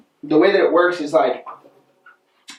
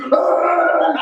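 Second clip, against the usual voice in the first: excited yell; 10 semitones higher than usual. Retold or imitated. Friend freaking out at the side.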